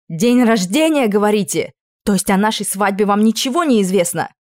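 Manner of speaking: loud, biting, sarcastic; angry accusation. Acted. Princess confronts the prince about the wedding, angry accusation. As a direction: throw his words back at him.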